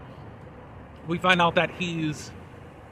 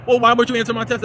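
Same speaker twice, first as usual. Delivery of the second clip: louder, higher challenge; lightly acted indignant questioning; mock confrontation; 5 semitones higher, 5 dB louder, faster than usual. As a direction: imitate an annoyed demand, pushed up in pitch. Acts out Ian and Camille's confrontation.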